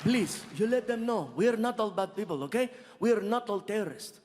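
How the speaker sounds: put-on lightly done Middle Eastern accent pleading; mild Arabic accent, earnest; Saudi man. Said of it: "He walks up to me".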